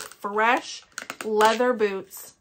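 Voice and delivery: real Ohioan accent, stretched out. Real, not acted. Describing a scent to viewers, Ohioan accent. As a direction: say it in an Ohioan drawl, drawn out slowly. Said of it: "in the most Ohioan accent ever".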